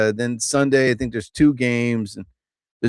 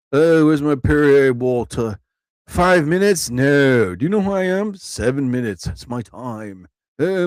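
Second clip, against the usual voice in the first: arrogant diva comic. Retold or imitated. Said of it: "don't be that guy that thinks".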